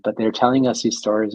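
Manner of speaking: normal talking voice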